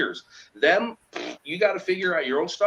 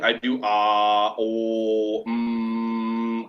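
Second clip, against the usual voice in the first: vibrating hum; 6 semitones lower, much slower than usual. Shown as a demonstration. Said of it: "I do a lot of vibrating".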